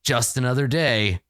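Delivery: measured, dramatic game master narration; Dungeon Master voice. Acted. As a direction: read it like fantasy boxed text, with weighty pauses. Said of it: "put on my best Dungeon Master voice".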